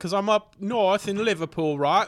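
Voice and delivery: put-on British football-fan accent; British soccer fan. Shown as a demonstration. Guest plays an Everton supporter, put-on British accent. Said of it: "be a British, uh, soccer fan".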